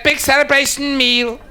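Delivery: high, drawn-out order call. Acted. Counter girl relays the order to the kitchen, high drawn-out call. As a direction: sing out the order slowly on a high note.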